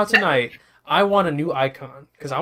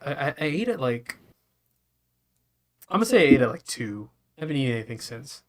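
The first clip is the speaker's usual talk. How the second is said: spacey, drifting stoner talk; 2 semitones lower than usual. Real, not acted. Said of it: "I don't know why I'm talking like I'm high right now".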